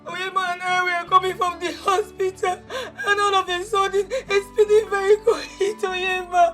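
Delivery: tearful plea. Acted. Tearful plea about dying brother.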